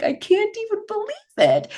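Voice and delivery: high-pitched incredulous retold reaction; mock disbelief. Host recalling spotting Core de Force on the schedule, mock disbelief. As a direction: act out disbelief, pitch shooting way up. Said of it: "I'm like".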